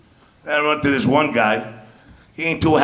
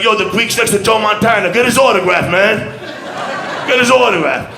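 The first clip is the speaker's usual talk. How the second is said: excited friends; 4 semitones higher than usual. Retold or imitated. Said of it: "They're like".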